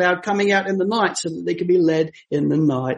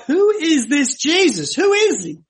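higher, rising puzzled question; puzzled Herod; 8 semitones higher than usual. Retold or imitated. Herod wonders about Jesus, higher and puzzled. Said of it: "but he's like".

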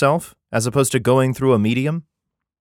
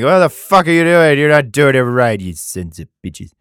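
angry God; 5 dB louder than usual. Retold or imitated. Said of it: "you're always being like".

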